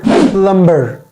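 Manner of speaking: "plumber" with the b sounded; "plumber" with an audible b; mispronounced plumber. Shown as a demonstration. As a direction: say "plumber" as plum-ber. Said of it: "it is not plumber".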